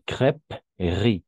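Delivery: crêperie said slowly with the middle e silent; crêperie as crêp-ri, drawn out. Shown as a demonstration. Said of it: "al medio son prácticamente mudas". (crêperie lenta, con la e muda)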